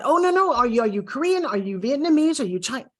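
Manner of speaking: acted prying, starting high; insistent guesser. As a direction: fire off guesses like a nosy stranger. Nosy American keeps guessing origin.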